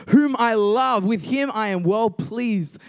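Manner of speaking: lightly boomed, slow divine proclamation; booming voice. Acted. Voice from the cloud praising his son, mildly booming. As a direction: let it ring out like a voice from heaven. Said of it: "a booming voice".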